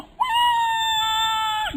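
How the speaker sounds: long, very high scream; high sustained mock scream; imitated mass screaming. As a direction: shriek like falling passengers. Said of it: "Teriak semua".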